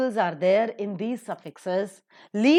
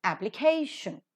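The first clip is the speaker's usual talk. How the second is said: "application" as one word, stressed on CA; stress before the suffix. Shown as a demonstration. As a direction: punch the KAY in "application". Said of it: "that is to be given accent".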